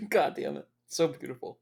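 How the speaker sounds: tearful. Real, not acted. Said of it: "I'm already crying".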